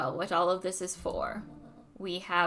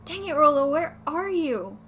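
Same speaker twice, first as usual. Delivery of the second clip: frustrated call; 6 semitones higher, 8 dB louder than usual. Acted. Luca searching for Rolo, frustrated loud call.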